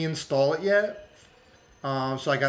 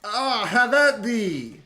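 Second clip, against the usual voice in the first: put-on old-timey knight; 3 semitones higher, slower than usual. Mock knightly battle cry.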